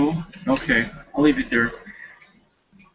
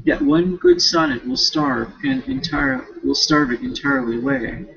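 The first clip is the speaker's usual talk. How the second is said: reading a novel passage aloud. Acted. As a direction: read the book out, steady and even.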